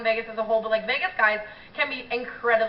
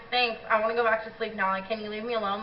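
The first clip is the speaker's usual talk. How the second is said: sleepy brush-off; 3 semitones lower, 6 dB quieter than usual. Retold or imitated. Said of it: "and I'm like".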